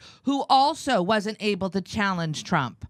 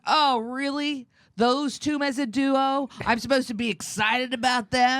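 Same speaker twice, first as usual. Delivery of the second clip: sarcastic disbelief; 4 semitones higher than usual. Retold or imitated. Sarcastic reaction to reported duo.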